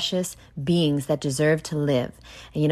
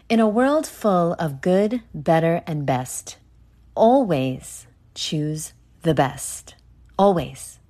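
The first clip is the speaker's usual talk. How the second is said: movie trailer voice; slower than usual. Pretend. Mock movie trailer opening.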